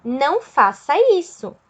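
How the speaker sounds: firm demonstrated command; firm order. Shown as a demonstration. Teacher showing students what an order is, firm command. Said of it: "quando tem uma ordem".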